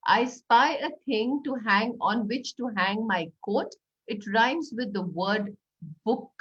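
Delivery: slow, playful clue; riddle voice. Shown as a demonstration. Teacher giving the next I spy riddle, slow. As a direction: draw the children in. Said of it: "Do an "I spy" riddle".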